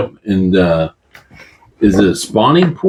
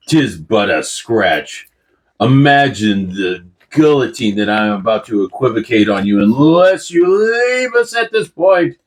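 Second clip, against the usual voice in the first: swashbuckling rogue boast. Acted. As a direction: shrug off the wound like a dashing duelist. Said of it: "You're supposed to say it in a British accent".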